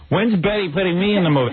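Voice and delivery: mock nagging wife, pitched high; Allison. Husband mimics wife angling for a film role, mock nagging. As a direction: imitate a wife pestering, voice lifted. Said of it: "every minute Allison says".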